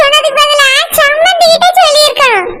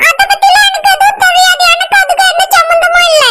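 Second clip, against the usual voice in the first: defensive outcry; 3 semitones higher than usual. Acted. Denying involvement in drama.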